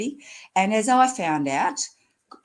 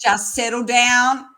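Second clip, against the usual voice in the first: mock soothing; 5 semitones higher, 7 dB louder, slower than usual. Calming the worried GP.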